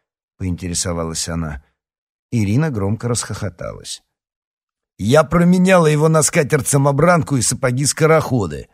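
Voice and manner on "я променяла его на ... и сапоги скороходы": loud, high-pitched outburst; exclaiming. A narrator's reading. A girl retorts about the lost amulet, exclaiming. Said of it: "воскликнула она".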